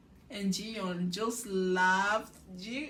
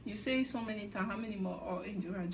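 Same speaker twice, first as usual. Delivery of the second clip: muttered mock teasing; faster than usual. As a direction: throw the jab away under your breath. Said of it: "making fun of Johan".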